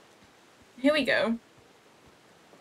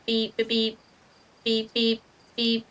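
steady flat beeps; even morse beeps. Pretend. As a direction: tap out the beeps like morse code. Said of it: "Start making beeping sounds".

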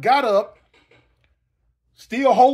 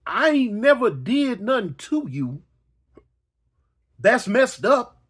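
whiny victim. Retold or imitated. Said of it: "repeats the victim line slowly".

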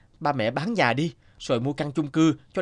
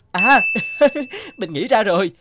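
louder, higher burst of discovery; light up with the idea; excited realization; 7 semitones higher, 6 dB louder than usual. Acted. Photographer suddenly finding his theme, excited.

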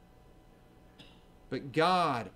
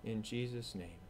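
closing prayer; 2 semitones lower than usual. Acted. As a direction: pray humbly for the congregation.

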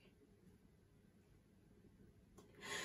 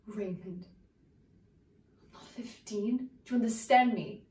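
searching soliloquy. Acted. Actress monologue to Raymond.

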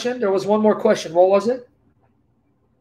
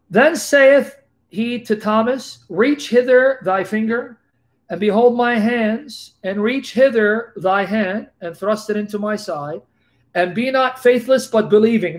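scripture reading. Acted. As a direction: read the verses like holy writ. Reads KJV scripture aloud.

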